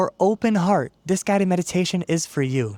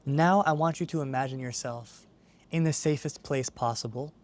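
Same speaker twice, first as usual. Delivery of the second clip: calm, measured meditation guide; guided meditation. Acted. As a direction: ease the listener into stillness, unhurried, with long pauses. Leads a guided visualization.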